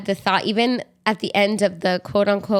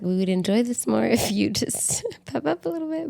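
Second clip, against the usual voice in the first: quoted through giggles, softer; soft giggly quote; laughing while quoting; 2 semitones higher, 4 dB quieter than usual. Retold or imitated. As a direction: tease them to perk up, laughing. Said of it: "I was just like".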